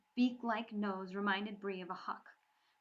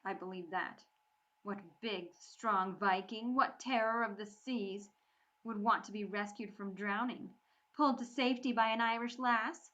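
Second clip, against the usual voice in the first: a lightly voiced sneer, rising to louder scorn; mocking sarcasm; 5 dB louder than usual. Bree mocking the proud Viking boy, sarcastic. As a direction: curl each word with mockery. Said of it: "Bree's voice curled around the words".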